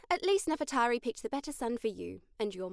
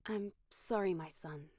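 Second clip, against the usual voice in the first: soft, breaking apology; voice cracking; 5 semitones lower, 6 dB quieter, slower than usual. Acted. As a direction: let the voice crack on it. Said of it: "her voice cracked".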